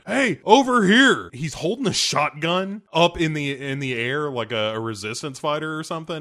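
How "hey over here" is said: high, loud call from a shelter; mock shout. Tim Robbins hollering from his tornado shelter, mock loud call. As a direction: yell it like a hammy survivor waving people over. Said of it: "coming out of ... going".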